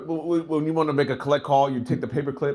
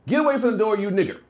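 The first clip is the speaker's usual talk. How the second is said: harsh racist; 7 semitones higher, 3 dB louder than usual. Shown as a demonstration. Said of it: "here's an example".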